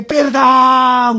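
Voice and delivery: drawn-out cry for mercy; mock plea from the flames; imitated cry. (grito de súplica fingido)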